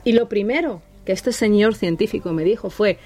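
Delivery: normal talking voice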